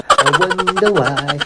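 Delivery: high, slow mock wondering; playful drawn-out musing. Vlogger wondering what the others are doing, playfully drawn out. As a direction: stretch it out high and silly.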